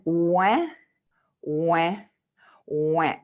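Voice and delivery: isolated drawn-out wah sounds; facial exercise. Shown as a demonstration. Coach shows a face-muscle exercise, exaggerated separate wahs. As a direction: lift the cheeks and say each wah separately. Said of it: "you think that is ridiculous".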